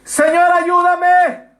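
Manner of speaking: high, slow, drawn-out cry of Peter sinking; a loud, stretched plea to be rescued; crying for help. Retold or imitated. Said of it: "dio voces diciendo".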